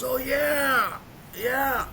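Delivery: high, loud, overexcited doper; imitated loaded friend. Loaded friend answers the phone, overexcited. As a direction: act out a buddy who is already high. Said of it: "This dude is already loaded".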